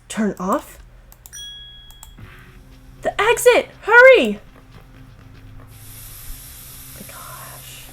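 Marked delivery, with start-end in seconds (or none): 3.0-7.9 higher and louder; urgent panic. Acted. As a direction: rush everyone to the exit. Escape panic.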